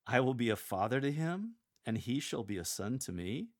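doubting lift at the end; incredulous questioning. Shown as a demonstration. Lector putting the angels on trial, incredulous. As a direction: question it as if it were unthinkable. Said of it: "Act like the angels are on trial".

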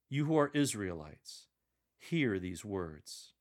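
Peter addressing the crowd boldly, slowing at the end; bold proclamation. Shown as a demonstration. Lector demonstrating Peter's speech to the crowd, bold proclamation. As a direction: proclaim it like a herald. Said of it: "Continue the bold tone".

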